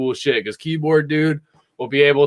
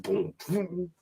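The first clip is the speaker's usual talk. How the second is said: bass imitation; 2 semitones higher, 12 dB quieter than usual. Shown as a demonstration. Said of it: "a bass version".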